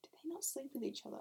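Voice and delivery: hushed, unvoiced aside; whispering. Real, not acted. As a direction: whisper it like a cheeky secret. Whispered aside about characters.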